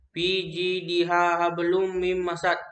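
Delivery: slow recitation with a light bounce in "hablum"; gentle bounced consonant. Shown as a demonstration. Teacher showing qalqalah sugra, light bounce in "hablum". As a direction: recite "fi jidiha hablum mim masad" slowly, lightly bouncing qalqalah letters. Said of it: "tidak terlalu kuat".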